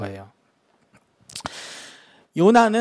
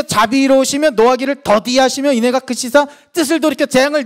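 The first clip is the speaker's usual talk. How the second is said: loud, higher, indignant reading of Jonah's prayer; angry complaint to God; 6 semitones higher, 4 dB louder than usual. Acted. Prophet Jonah bitterly protesting God's mercy, loud and angry. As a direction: rail at God as you read it. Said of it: "하나님께 역정을 내고 있는 거예요".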